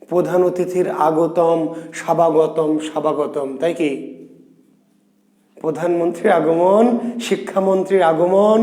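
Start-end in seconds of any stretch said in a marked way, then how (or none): 1.9-3.6 স্বাভাগতম with a sounded b, repeated; mock mispronunciation. Shown as a demonstration. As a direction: say স্বাভাগতম as sha-ba-go-tom. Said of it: "বয়ের উচ্চারণ আমরা করছি না".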